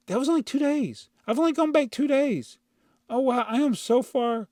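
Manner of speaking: disbelieving high voice; surprised. Real, not acted. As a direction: marvel at how little progress. Realizing he is behind.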